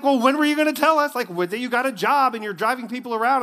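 high, loud exasperated questioning; indignant surprise. Retold or imitated. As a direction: demand why mom kept it secret. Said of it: "I'm like".

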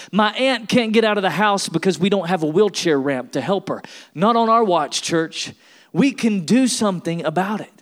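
rally the church, rising each refrain; preacher rising to a call to action; building preaching. Real, not acted. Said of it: "building refrain".

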